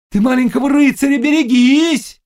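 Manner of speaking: high, loud witch's warning; urgent warning. A narrator's reading. Witch warning the Cossack about the knight, crying out. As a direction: cry the warning out, pitched right up.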